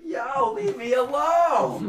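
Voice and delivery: high, slow shout, half joking; mock alarmed shout. Walking past the bar, to the catcalling girls, a mock shout. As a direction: yell it like you're being hassled.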